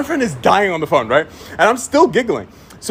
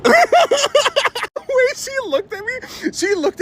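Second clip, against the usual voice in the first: high, slow words squeezed through laughter; helpless high laughing delivery; laughing while talking; much slower than usual. Real, not acted. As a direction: crack up at your own story. Cracking up at own story.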